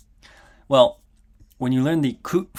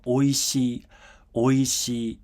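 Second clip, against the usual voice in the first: "oishii" held level, no drop in pitch; "oishii" with a level, unaccented tune; flat pitch accent; much slower than usual. Shown as a demonstration. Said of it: "this is a flat pitch accent word".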